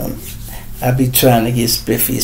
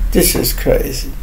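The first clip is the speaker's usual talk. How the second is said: breathy whisper to himself; 3 semitones higher, 6 dB quieter than usual. Real, not acted. Vlogger shaking his head at the news, whispered. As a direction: drop to a whisper, stunned.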